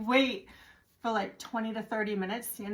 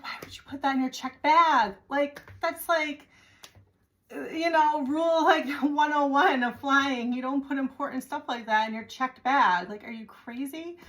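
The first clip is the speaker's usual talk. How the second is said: higher, mocking disbelief; incredulous; 4 semitones higher than usual. Real, not acted. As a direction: scoff at how foolish that was. Mocking the man's choice.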